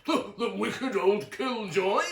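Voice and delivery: high, slow laughing jeer. A narrator's reading. Uncle Merriweather mocks the grandfather, laughing. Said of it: "laughed Uncle Merriweather".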